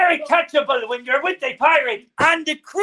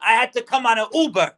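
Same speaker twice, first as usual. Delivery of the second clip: blustering pirate captain. Acted. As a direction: threaten like a stage pirate. Pirate host addressing crew.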